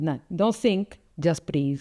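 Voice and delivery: lightly imitated Italian accent; retold Italian-accented diving instructor. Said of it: "you know, Italian".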